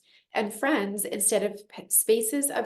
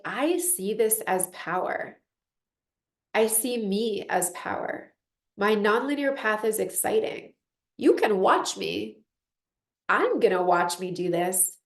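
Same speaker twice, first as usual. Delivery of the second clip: confident self-talk. Retold or imitated. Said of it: "it's like".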